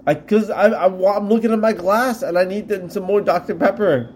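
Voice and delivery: speaking through a yawn. Real, not acted. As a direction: talk mid-yawn, stretched words. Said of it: "You keep yawning".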